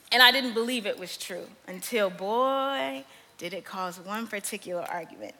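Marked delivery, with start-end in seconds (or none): none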